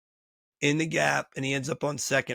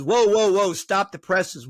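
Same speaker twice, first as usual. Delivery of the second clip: loud, higher, halting someone in amazement; acted astonishment; 4 semitones higher, 5 dB louder, slower than usual. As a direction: play the scout stopped in his tracks. Scout stunned on seeing the player.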